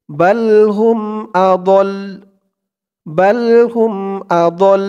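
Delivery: measured chant, "আদল" closed on the final "ল"; "বাল হুম আদল" stopped on a held "ল", no vowel after it; stopping pronunciation. Shown as a demonstration. Teacher showing how to stop at the jim sign, "আদল" ending on "ল". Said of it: "এরকমভাবে উচ্চারণ করতে হবে".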